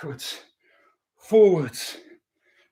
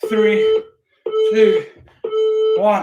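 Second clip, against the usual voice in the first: shouted countdown; much slower than usual. Real, not acted. Counting down the last seconds.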